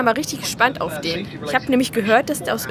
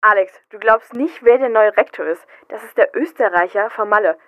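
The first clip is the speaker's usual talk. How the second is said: excited; 4 dB louder than usual. Acted. Excited news about rector.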